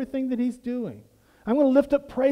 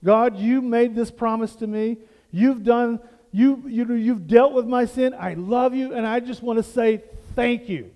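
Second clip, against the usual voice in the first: sincere prayer; 3 dB louder than usual. Retold or imitated. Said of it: "all he's saying is".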